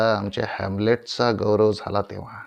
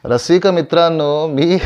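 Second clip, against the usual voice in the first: loud, raised theatrical address; grand address; 6 semitones higher, 8 dB louder than usual. Acted. Old stage actor hailing his audience, grand and loud. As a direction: call out to the whole house.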